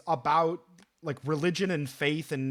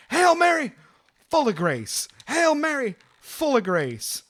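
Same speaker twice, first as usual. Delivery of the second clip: loud, high mock yell of a prayer; shouted prayer imitation, each opening pitched way up; retold yelled prayer; 9 semitones higher, 5 dB louder than usual. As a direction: imitate a man bellowing prayers mid-fight. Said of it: "the guy starts yelling".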